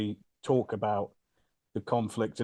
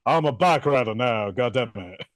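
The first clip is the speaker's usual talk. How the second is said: louder mock grumble in a singer's voice; lightly voiced singer impression; Butler stuck in the singer's voice; 5 dB louder than usual. Butler complaining he no longer sounds like the singer, in the singer's voice. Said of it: "He's like".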